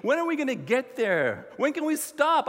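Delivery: hammed-up restless travelers; impatient complaining. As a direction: fire off grumbling questions at the leader. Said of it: "they complain about leadership".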